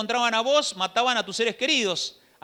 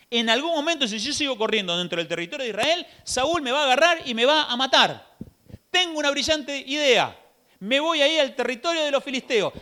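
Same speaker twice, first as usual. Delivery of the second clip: higher, pleased with his clever plan; self-satisfied David; 4 semitones higher than usual. Acted. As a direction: sell yourself the bright idea. (David convencido de su brillante idea, algo más agudo)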